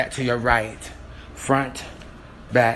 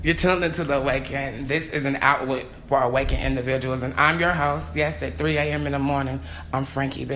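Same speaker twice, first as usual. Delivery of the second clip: podcast host intro; 2 semitones higher than usual. Acted. Host greets his late-night listeners, announcer style. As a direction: welcome listeners like a radio host.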